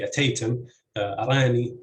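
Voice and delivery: aTAYtim and aRAni, second syllables stressed. Shown as a demonstration. Lecturer giving third-case examples, ataytim and arani stressed on second syllable. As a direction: hit TAY in ataytim and RA in arani. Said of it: "stress falls on the second".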